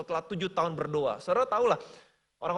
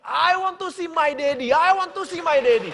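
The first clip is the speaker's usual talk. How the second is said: daughter crying out; 9 semitones higher, 8 dB louder than usual. Retold or imitated. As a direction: call out for her father in longing. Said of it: "Anaknya berteriak".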